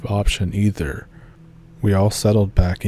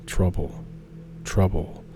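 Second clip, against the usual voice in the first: choking growl; 7 dB quieter than usual. A narrator's reading. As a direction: growl it like something mimicking a human. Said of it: "a choking growl".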